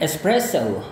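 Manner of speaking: espresso ending in an ou glide, British English. Shown as a demonstration. Teacher demonstrates British espresso for comparison. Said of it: "gaya orang Inggris".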